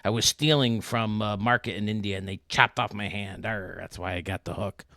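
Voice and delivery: loud arr then lightly gruff pirate telling; hammed-up pirate explaining. Pirate in the joke explains his hook, mild pirate voice. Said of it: "He says".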